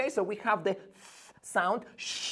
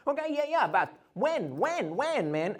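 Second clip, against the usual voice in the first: student asking; 6 semitones higher than usual. Pretend. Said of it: "voicing a student's question".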